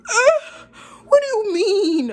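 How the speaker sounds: high-pitched, breaking into laughter; laughing disbelief. Real, not acted. Reacting to her date's demand, laughing in disbelief.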